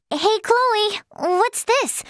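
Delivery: high, curious call; calling to a friend. Acted. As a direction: perk up and call out to a companion. Calling a companion over.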